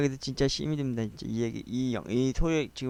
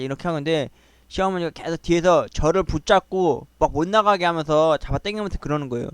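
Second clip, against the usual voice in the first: ordinary delivery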